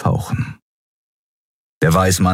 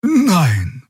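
high, simple honest no; truthful no; 14 semitones higher than usual. A narrator's reading. Xia answering the officer honestly, high. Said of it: "antwortete sie wahrheitsgemäß".

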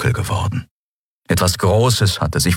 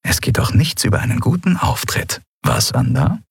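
hoch und gehaucht, trocken-spöttisch; trocken lächelnd; 10 semitones higher than usual. A narrator's reading. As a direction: mit trockenem Lächeln stichelnd. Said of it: "Endriel lächelte trocken". (Endriel neckt den Admiral, trocken lächelnd)

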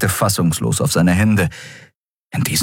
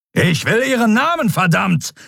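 high-pitched furious demand; angry, raised-pitch outburst; thundering anger; 13 semitones higher than usual. A narrator's reading. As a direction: thunder it at the prisoner. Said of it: "donnerte Telios".

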